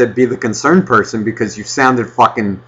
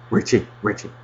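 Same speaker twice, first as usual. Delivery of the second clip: mock urgent; 3 semitones lower, 7 dB quieter than usual. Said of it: "So what was the whole fucking point of going".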